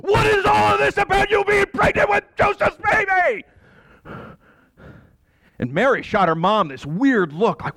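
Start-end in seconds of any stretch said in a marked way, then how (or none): 0.0-3.4 father confronting his daughter; demanding confrontation. Acted.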